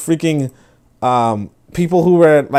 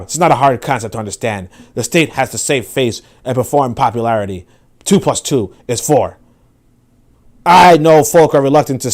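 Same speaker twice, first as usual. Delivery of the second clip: angry reading. Acted. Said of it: "That's a good angry reading".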